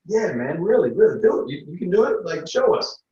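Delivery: a buddy hyping his friend to try the trick, excited; excited urging. Retold or imitated. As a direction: push him to do it, all hyped up.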